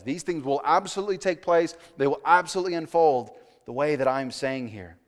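loud, firm assurance; emphatic. Retold or imitated. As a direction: state it forcefully as a sure promise. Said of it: "the text is really emphatic".

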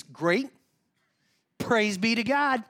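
loud, slow put-on piety; hammed-up pastor showing he has it together; fake pious. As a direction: overdo the holy answer. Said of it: "Pastor guy's gotta have it together".

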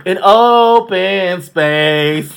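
slow, drawn-out Wendy Williams phrasing; a hint of Wendy Williams. Quoting Wendy Williams to her friend, slow and drawn out. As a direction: stretch each word like the talk show host. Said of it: "in the words of Wendy Williams".

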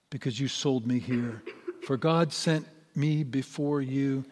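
measured, solemn Bible reading to a congregation; scripture reading. A narrator's reading. Pastor reads Genesis to the congregation, solemn and measured.

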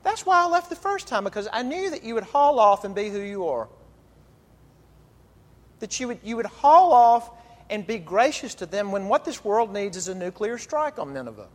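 Jonah's high, loud angry complaint; indignant Jonah. Retold or imitated. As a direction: spit it out like a prophet who wanted Nineveh burned. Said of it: "you've got Jonah saying to God".

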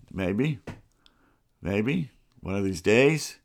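muttered hopefully under his breath; coaxing a balky computer, muttering softly; quiet mutter. Real, not acted. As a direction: mutter it to the machine, half to yourself. Coaxing the computer to play clip.

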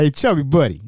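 lightly imitated uncle calling out a nickname; uncle's nickname call. Uncle hailing his chunky young nephew, lightly imitated call. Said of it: "That's how he said it".

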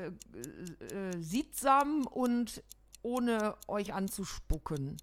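lightly voiced Cologne housewife character; a hint of a folksy Christmas address; Rosi Christmas speech. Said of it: "die Weihnachtsansprache von Dat Rossi".

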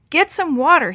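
puffing, breathless urgent order; out of breath. Acted. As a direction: gasp it out while beating flames. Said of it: "he puffed".

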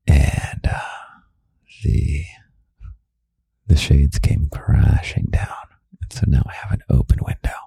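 whispered ASMR podcast, close to the ear; intimate whisper. Real, not acted. Host alone with little bunny late at night, whispering.

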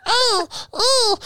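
high, laughing squeal. Real, not acted. Laughing after joke.

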